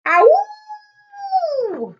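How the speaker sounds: a sudden high loud ow; high yelp of pain. Acted. Fox poked in mouth.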